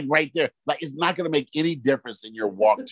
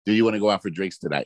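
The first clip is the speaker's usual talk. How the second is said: rushed; 3 semitones lower, much faster than usual. Retold or imitated. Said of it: "the total message is".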